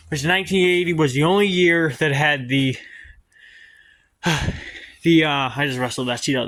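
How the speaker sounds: winded after heavy lifting; out of breath. Real, not acted. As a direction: talk while catching your breath. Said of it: "that's why I'm out of breath".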